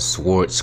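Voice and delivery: "Swartz" with the w sounded and a ts ending; mispronounced sword. Real, not acted. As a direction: slip into "Swartz", w pronounced, for sword. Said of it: "Why did I just say it like that?".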